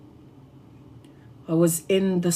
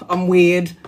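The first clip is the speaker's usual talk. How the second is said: retold telling-off of a lost friend; mildly scolding, imitating an old rant; having a go. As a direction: rattle off a grieving complaint, run together. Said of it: "keep having a go at her".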